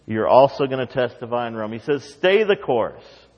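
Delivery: the Lord telling Paul to take courage. Acted. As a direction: speak as the Lord encouraging Paul. Preacher voicing the Lord.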